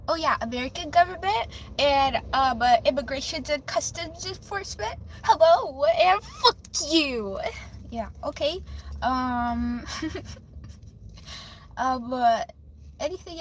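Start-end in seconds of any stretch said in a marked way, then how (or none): 5.2-7.4 a mocking hello that turns rude; slow defiant greeting. Real, not acted. Streamer addressing immigration enforcement, slow and defiant. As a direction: drag it out, sarcastic and pointed.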